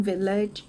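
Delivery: village with a light "j" sound at the end; soft final GE. Shown as a demonstration. Teacher shows the word's ending, soft final "j" in village. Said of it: "จีอี ข้างหลังจืดนิดหน่อย".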